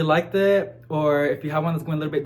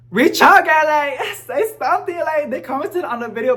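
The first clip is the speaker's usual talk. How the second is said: excited urging; 11 semitones higher, 6 dB louder than usual. Real, not acted. Urging the shop owner to reach out.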